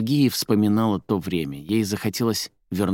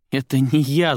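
protesting; 6 semitones higher, 4 dB louder than usual. A narrator's reading. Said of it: "запротестовала та".

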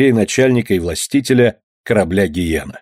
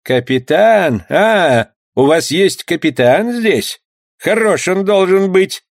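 scornful skipper, pitched higher; contemptuous; 8 semitones higher, slower than usual. Acted. Skipper Benoit scornfully mocks the bandit captain. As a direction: sneer at their captain. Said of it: "с презрительной гримасой".

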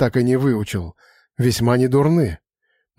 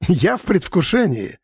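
a mock-eager exclamation, pitched higher; laughing, higher; 5 semitones higher than usual. A narrator's reading. Santor teases the shaman, laughing higher. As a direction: toss it off with a laugh in the voice. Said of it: "рассмеялся Сантер".

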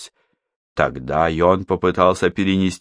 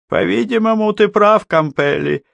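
villain voice; 14 semitones higher, 3 dB louder than usual. Acted. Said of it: "наконец сказал он".

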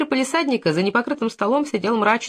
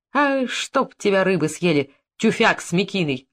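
plain reading voice

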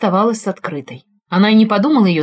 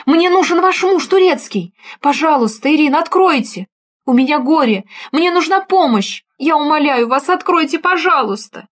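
panicked plea; 7 semitones higher than usual. Acted. Frightened neighbour begging Irina to open the door, high and panicked. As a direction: beg to be let in, in a panic. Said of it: "в котором явственно ощущалась паника".

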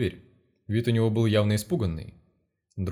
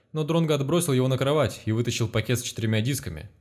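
ordinary delivery

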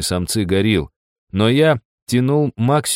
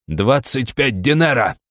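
growled; 4 semitones higher, slower than usual. Acted. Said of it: "рыкнул бригадир".

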